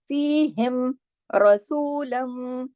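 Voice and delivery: very slow, heavy ra in रसूलम; recitation. Shown as a demonstration. Teacher chanting for students, slow. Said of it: "रा मोटा पढ़ेंगे".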